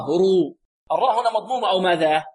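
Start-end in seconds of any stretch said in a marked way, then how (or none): 0.1-0.6 رو with a full, heavy r. Shown as a demonstration. Teacher shows the u-vowel case, heavy emphatic رو. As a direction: thicken the r in رو. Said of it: "مفخمة".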